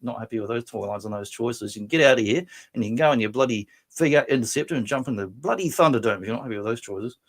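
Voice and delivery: hammed-up Australian ocker rant; broad Aussie. Host tells Matt off as an Aussie, broad Australian. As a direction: lay on the Australian slang and accent, rattling along. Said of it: "Matt, we're in Australia".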